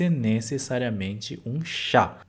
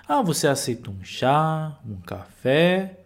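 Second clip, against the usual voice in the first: "chá" and "café" drawn out in a questioning tune; question intonation. Shown as a demonstration. Teacher showing how Portuguese asks by intonation, questioning tune on "chá" and "café". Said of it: "mudando a entonação".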